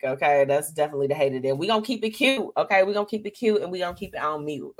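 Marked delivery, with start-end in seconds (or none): 2.8-4.8 laughing. Real, not acted. Laughing at her own rhyme.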